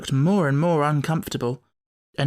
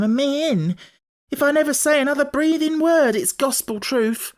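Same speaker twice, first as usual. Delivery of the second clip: tearful maid; 8 semitones higher than usual. A narrator's reading. Maid pleads with her mistress, high and tearful. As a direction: blurt it all out between sobs. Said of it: "Martha burst into heavy sobs".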